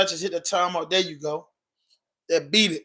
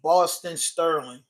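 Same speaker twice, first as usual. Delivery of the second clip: slow clear dictation; slower than usual. Shown as a demonstration. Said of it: "Google that".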